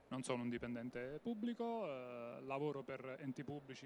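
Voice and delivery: faint voice through a bad microphone; distant and muffled, like a poor line; over the phone. Real, not acted. (come al telefono, voce lontana e debole)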